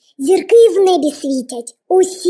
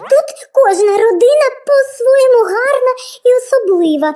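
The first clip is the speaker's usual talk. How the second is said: star; 3 semitones higher than usual. Acted. Star answers wizard, overwhelmed.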